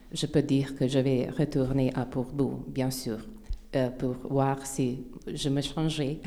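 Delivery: non-native French speaker; French with an English-speaking accent; foreign accent in French. Real, not acted. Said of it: "mon français n'est pas très bon".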